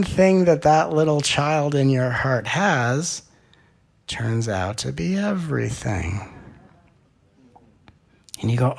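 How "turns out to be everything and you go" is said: ordinary talk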